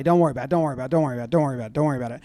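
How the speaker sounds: low, rattled-off reassurance; soothing. Retold or imitated. Second baseman to the pitcher Clay, reassuring in a low voice.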